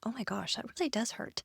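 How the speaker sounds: hushed from real pain of the squeeze; quiet pained. Real, not acted. Testing the hand hold, quietly wincing in pain. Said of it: "it's very sensitive".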